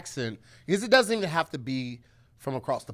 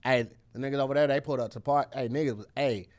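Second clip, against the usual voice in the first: Saint Louis accent. Shown as a demonstration. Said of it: "you give me Saint Louis".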